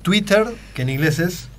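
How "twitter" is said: "Twitter" said the Spanish way, with a hard T; Spanish pronunciation. Shown as a demonstration. Guest shows how locals say it, Spanish-style "Twitter". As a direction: say "Twitter" with a clear Spanish middle t. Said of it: "Nosotros decimos Twitter".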